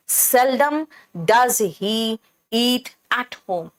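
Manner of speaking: seldom leaned on, then does he eat at home very slow; mother stressing how rarely he eats at home. Shown as a demonstration. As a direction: put the weight on seldom and crawl through the rest. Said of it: "इस बात पर जोर दे रही है".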